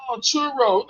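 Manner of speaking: imitated Mexican accent on CHURRO. Subway worker finally understanding the order, Mexican accent. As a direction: say "churro" like a Mexican Spanish speaker. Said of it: "said it with a Mexican accent".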